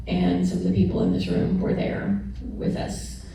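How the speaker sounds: quiet, close to tears; emotional. Real, not acted. Thanking friends for the funerals, softly emotional. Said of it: "I'm gonna get really emotional".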